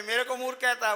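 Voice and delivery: outraged priest demanding an answer; indignant loud question; angry pandit. Retold or imitated. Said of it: "को आई गुस्सा".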